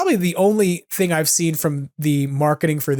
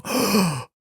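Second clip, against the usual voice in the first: a short, mock gasp of wonder; a small gasp of delight, like a kid; light imitated gasp of surprise; childlike gasp; 4 semitones higher than usual. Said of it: "made my inner child go".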